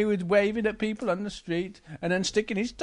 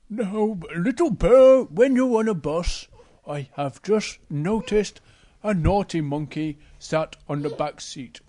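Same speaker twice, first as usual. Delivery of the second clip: slow, deliberate storybook bear; lightly voiced bear giving a careful warning; Big Bear; 3 dB louder than usual. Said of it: "Big Bear says to Little Bear".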